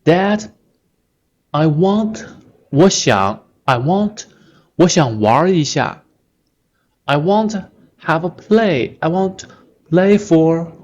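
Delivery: put-on high, pleading kid voice; polite child asking. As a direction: sweetly beg like a child asking dad for playtime. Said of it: "usually from a kid".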